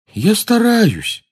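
high, slow, miserable whine; unhappy voice. Acted. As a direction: plead unhappily. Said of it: "несчастным голосом ответил Невилл".

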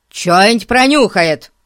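"Чё-нибудь пронюхает" slurred, loud and annoyed; mumbled repeat. A narrator's reading. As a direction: swallow the words of "Чё-нибудь пронюхает".

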